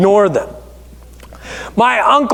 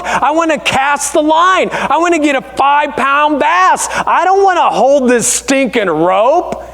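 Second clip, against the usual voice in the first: put-on whiny kid self; 4 semitones higher than usual. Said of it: "I was like".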